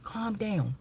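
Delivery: soft whispered "Calm down.". Retold or imitated. Soothing her upset brother, a whispered "Calm down.". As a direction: hush him gently in a whisper. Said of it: "I said, "Calm down".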